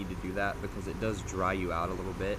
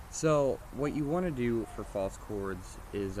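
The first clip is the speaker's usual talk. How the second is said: normal talking voice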